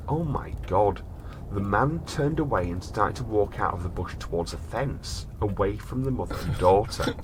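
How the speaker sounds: measured storyteller reading; story narration. A narrator's reading. Host reads a strange case to his brother in storyteller voice.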